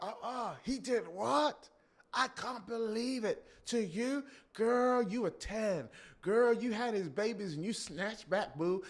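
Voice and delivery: put-on high, loud hyped-up girlfriend; sassy girlfriend voice. Girlfriend cheering on the wife, high and sassy. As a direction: hype her friend up with sass. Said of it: "I'm doing it again".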